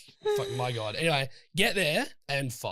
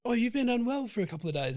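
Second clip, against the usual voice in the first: put-on higher-pitched posh accent; posh little accent; 9 semitones higher than usual. Quoting Bonnie's concern to him, in a posh little accent. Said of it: "in a beautiful, posh little accent".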